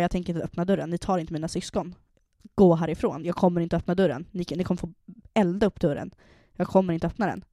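half-shouting refusal at the police; retold defiant yelling.

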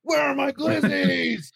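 drawn-out high shouted demand; slow angry yell. Retold or imitated. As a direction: stretch the yell out slowly. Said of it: "Do it, Reddy".

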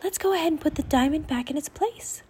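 high, lightly voiced young raven; a hint of a croak, pitched well up. A narrator's reading. Raven Annie reporting to Jack, high and lightly croaked. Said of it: "croaked Annie".

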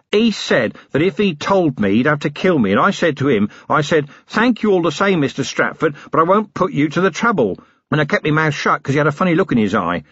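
eager, simple-minded prisoner voice; lightly voiced dim henchman, talking up; simple working man. Flutter speaks to Vimes.

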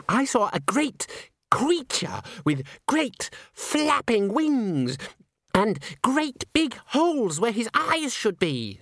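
very high, drawn-out character voice; high-pitched awestruck girl; Christine, excitable witness. A narrator's reading. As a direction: tell it as breathless melodrama, slowly and high. Christine reports the ghost sighting.

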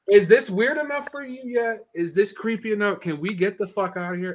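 very high, frantic squeaky questions; panicked pleading. Retold or imitated. Storyteller begging his buddy to leave the park, panicked.

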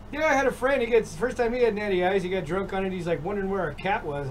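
lightly voiced Virginia accent. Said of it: "in his Virginia accent".

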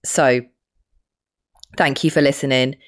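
hoarse voice from a cold; croaky, rough from a cold. Real, not acted. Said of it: "my really strange croaky voice".

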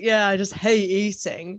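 slow, drawn-out sarcastic agreement; retold mock-earnest sarcasm. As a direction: pretend to agree, dragging the words out. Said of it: "I was sort of being all sarcastic".

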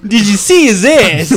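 helium voice. Retold or imitated. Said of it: "Sounds like Christopher Walken on, on helium".

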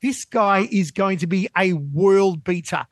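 retold excited pitch, voice up high; excited praise. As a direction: sell Stan on his new fighter. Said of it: "And I said".

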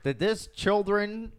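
high, drawn-out amazed TV host; Huell Howser. Acted. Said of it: "like a place Heel Hauser would go".

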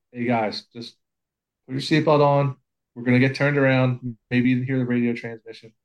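calm, even-voiced request; relaxed and polite, no yelling; gentler version. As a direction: ask the crew nicely to buckle up. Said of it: "I guess I gotta be like".

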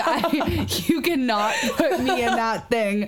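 laughing. Real, not acted. Laughing retelling refusal.

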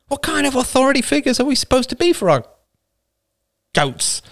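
high, agitated growling grumble; growled complaint. A narrator's reading. Man to the group on their failed authority, growling. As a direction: growl it out, rising into exasperation. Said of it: "Another man growled".

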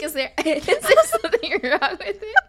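high, loud quote breaking into laughter; laughing imitation. Drunk guy asking about his hair, imitated through laughter. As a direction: act out his worry through your own giggles.

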